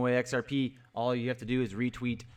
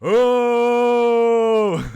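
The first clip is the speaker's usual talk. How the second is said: loud high laugh breaking through the words; real laugh, then talking through it; burst of laughter; 10 semitones higher, 13 dB louder than usual. Real, not acted. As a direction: crack up mid-word. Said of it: "making me laugh".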